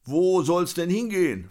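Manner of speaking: high-pitched, wary character voice; acted tentative inquiry; cautious question. A narrator's reading. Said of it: "fragte er erstmal vorsichtig".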